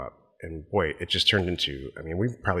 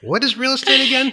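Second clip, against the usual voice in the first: much higher, louder playful mock question; mock clueless question; 8 dB louder than usual. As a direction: play dumb for the joke. Joking mock ignorance.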